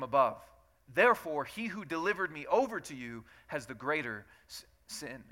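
steady, measured Bible reading to the congregation; scripture reading. Acted. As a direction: read the passage aloud with care. Reads scripture aloud.

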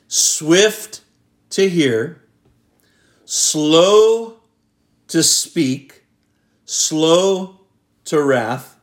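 stressed phrase reading; emphasised key words. Shown as a demonstration. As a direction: lay out the phrase word by word. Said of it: "underline a few words".

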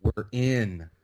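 imitating giddy extras, low and repetitive; freaking out. Extras realizing they got picked, imitated freaking out. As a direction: run the words together in mock overwhelm. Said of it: "like, freaking out".

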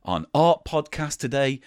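very low, soft presenter voice; hushed arts interviewer. Pretend. Host welcoming an artist to an art podcast, hushed and reverent. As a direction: speak softly and low like an earnest arts host.

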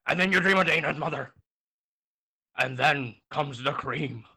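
a lightly voiced old man spinning a crude recipe; smug old storyteller, lewd and unhurried; a hint of a crude old man; Nixon. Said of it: "Nixon's gonna tell you".

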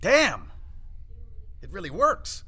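delighted outburst. Real, not acted. Delighted at success.

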